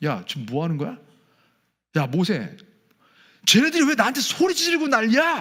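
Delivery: acted-out, thoroughly annoyed and fed-up, pitch climbing. The speaker acts out God complaining to Moses about the people: mock-annoyed. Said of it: "지금 하나님의 감정이 이런 거예요".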